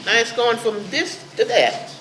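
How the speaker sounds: heated protest. Real, not acted. Heated objection at a board meeting.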